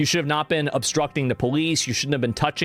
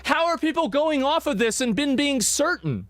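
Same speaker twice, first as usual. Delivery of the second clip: higher, laughing in baffled disbelief; can't believe anyone is sure; incredulous laughing disbelief; 10 semitones higher than usual. Real, not acted. Cohost baffled at people certain about the gun, incredulous.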